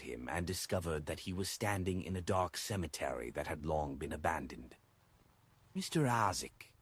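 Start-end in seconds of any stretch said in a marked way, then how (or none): 5.7-6.7 a raised, puzzled call of a name; puzzled shout. A narrator's reading. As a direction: call out to him, unsure where he is. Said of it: "he shouted in puzzlement".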